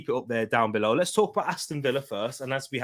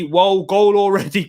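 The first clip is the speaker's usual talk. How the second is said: surprised; 7 semitones higher, 8 dB louder than usual. Real, not acted. Spots an early goal on stream.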